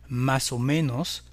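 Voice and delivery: slow más o menos, menos stressed on ME; stress on second-to-last syllable. Shown as a demonstration. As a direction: say más o ME-nos slowly. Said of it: "comme pour les voyelles l'avant-dernière syllabe".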